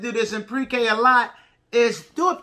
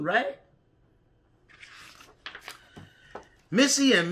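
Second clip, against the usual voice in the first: put-on reading to a toddler. A narrator's reading. Reads picture book to preschoolers.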